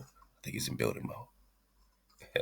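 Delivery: whispered under the breath, slow; whispered aside. Real, not acted. Repeating the guess about Bam Bam, whispered. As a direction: murmur it to yourself.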